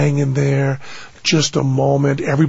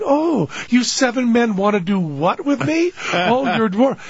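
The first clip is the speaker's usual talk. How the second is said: lightly voiced coy Snow White, higher pitch; mock Snow White; 6 semitones higher than usual. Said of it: "is now going".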